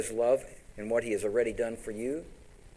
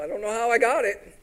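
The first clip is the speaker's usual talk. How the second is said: mock modest winner; 10 semitones higher, 5 dB louder than usual. Boastful winner with trophy.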